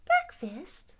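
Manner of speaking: high, loud little mouse; alarmed mouse. Acted. Mouse called breakfast by lion, alarmed mouse. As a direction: yelp it in startled disbelief. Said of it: "said the mouse".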